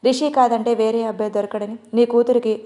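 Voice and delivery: usual speaking voice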